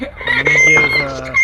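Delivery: very high, squeaky cartoon pitch.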